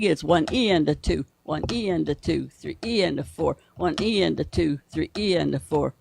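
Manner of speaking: one E and a two, with E hit harder; stress on E. Shown as a demonstration. Drum teacher counting the beat for his student, E accented. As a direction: count it out, leaning on each E. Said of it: "So the E is loud".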